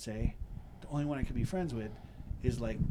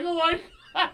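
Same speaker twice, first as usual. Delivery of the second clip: high, loud delighted squeal; delighted gasp; 9 dB louder, slower than usual. Retold or imitated. Greeting the pit bull, high loud delight. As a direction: gush at the friendly dog. Relief as the dog turns friendly.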